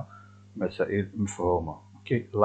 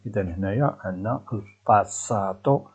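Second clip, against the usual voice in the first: ordinary talk, nothing marked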